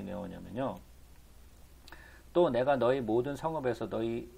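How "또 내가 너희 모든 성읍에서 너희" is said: even, measured Bible reading; scripture reading. A narrator's reading. Preacher reading the prophet's words to the congregation, formal recitation. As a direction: read the verse out formally.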